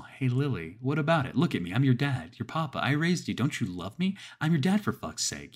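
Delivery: high and loud, coaxing turning to anger; wheedle, then snap in frustration; growing agitation. A narrator's reading. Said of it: "getting more agitated as I stared".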